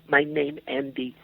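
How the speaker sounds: put-on timid foreign-man accent, broken English; lightly put-on foreign accent, halting words. Foreign man telling the club owner his name, in halting foreign accent. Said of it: "he called it the foreign man character".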